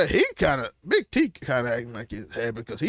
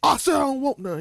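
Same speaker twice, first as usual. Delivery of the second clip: quoting Big T; 9 semitones higher than usual. Retold or imitated. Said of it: "He like".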